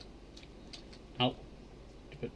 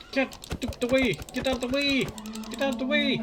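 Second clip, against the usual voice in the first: frustrated shriek; 12 semitones higher than usual. Real, not acted. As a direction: squeal at the thing in your way. Shrieking at mob blocking the way.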